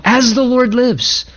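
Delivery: slow, pious "As the Lord lives"; mock-pious phrase. Shown as a demonstration. Pastor mimicking empty spiritual talk, slow and pious. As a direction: lean into the holy-sounding words. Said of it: "people use spiritual talk".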